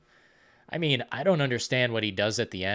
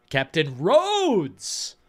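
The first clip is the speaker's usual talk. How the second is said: drawn-out call; 6 semitones higher, 4 dB louder, much slower than usual. Real, not acted. Exclaiming zombie film villain name.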